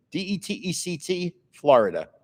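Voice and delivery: D E T E C T spelled letter by letter, then Florida. Shown as a demonstration. Telling viewers how to find the channel, spelled out letter by letter. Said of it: "Detect Florida".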